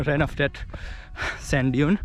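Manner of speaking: winded after a sprint; panting, catching breath. Real, not acted. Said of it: "I'm catching my breath".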